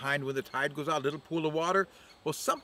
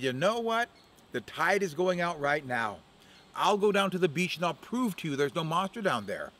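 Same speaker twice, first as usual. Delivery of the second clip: Crow boasting; 3 semitones higher than usual. Acted.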